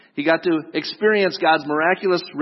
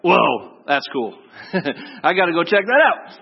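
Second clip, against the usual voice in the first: excited. Retold or imitated. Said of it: "I think it was more like".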